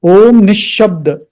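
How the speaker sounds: Om Nishabda, loud, with the sh held double; stressed double sh. Shown as a demonstration. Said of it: "Little bit stress because of two shas".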